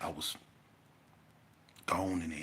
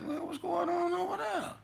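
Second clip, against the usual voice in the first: startled call. Retold or imitated. Onlookers startled by commotion.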